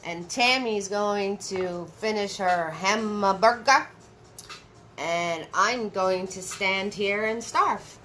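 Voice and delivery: playful, badly faked Italian accent; joking mock-Italian lilt; attempted Italian accent. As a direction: put on a hammy, half-hearted Italian accent. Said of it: "I don't know how to say starve with an Italian accent".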